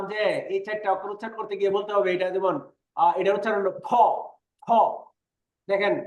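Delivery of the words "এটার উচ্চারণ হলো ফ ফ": ফ with a strong puff of air; aspirated ph. Shown as a demonstration. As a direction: push extra air out on ফ. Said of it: "বাতাসের ঝাপটা বেশি বের করে". (ফ জোরে বাতাস ছেড়ে)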